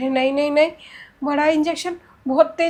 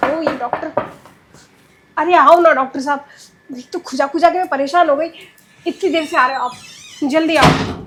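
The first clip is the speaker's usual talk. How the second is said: impatient call; 6 dB louder than usual. Acted. Impatient patient calling doctor.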